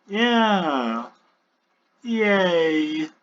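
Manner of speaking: high, lightly acted nervous cheer; kinda nervous. A narrator's reading. Newcomer agreeing he is the awaited one, kinda nervously. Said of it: "he says kinda nervously".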